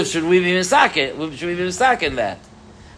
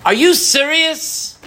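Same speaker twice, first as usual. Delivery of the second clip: higher, incredulous complaining to God; cynical inner voice; 6 semitones higher than usual. Retold or imitated. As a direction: whine it like a put-upon servant. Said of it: "My cynical voice says".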